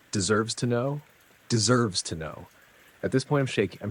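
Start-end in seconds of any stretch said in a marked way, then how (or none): 0.1-1.0 "Deserves to know?" repeated back with a rising question, a little higher; incredulous echo. Retold or imitated. 1.5-2.5 "Deserves to know." said back flat and level, letting it sink in; flat bitter repeat. Retold or imitated.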